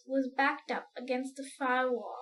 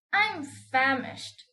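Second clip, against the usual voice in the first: slow, louder famished grasshopper; 5 dB louder, much slower than usual. Acted. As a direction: drag the words out like a starving old grasshopper. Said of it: "the old green grasshopper said".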